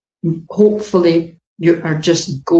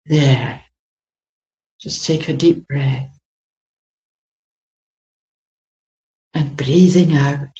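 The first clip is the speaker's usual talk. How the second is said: guided meditation. Acted. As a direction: talk them gently through the scene. Channelled guided meditation scene.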